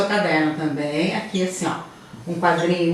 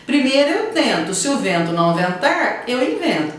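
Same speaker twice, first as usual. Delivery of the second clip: lines read with rising emphasis on eu and invento; poem recited; 4 semitones higher than usual. Shown as a demonstration. Teacher rereads the poem to answer the question, lively. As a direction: recite it with a bright lift on eu. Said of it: "de acordo com o poema".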